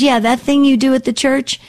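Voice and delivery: a hint of dad's way of saying it; imitating dad. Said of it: "that's how he said it".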